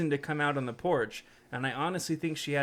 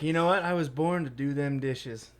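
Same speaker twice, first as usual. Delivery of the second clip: eager dishwasher helper. Pretend.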